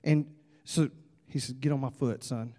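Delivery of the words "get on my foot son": low, hushed instruction; conspiring dad. Acted. Dad slipping his son a sneaky order, hushed. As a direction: say it under the breath, secretly.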